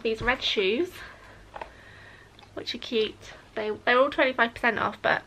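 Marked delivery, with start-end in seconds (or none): 2.5-3.1 whisper. Real, not acted. Showing baby shoes.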